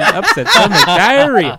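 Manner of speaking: jingle voice. Retold or imitated. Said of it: "Yeah, that one".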